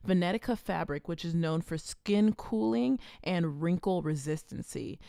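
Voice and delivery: steady sponsor read. Acted. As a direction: read the ad copy evenly.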